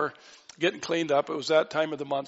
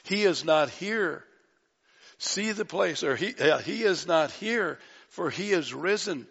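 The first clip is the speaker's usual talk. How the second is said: excited angel. Acted. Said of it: "I believe this angel is excited".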